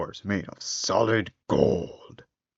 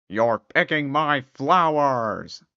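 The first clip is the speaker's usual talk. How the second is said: growling beast; 4 semitones higher, slower than usual. Acted. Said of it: "growled the beast".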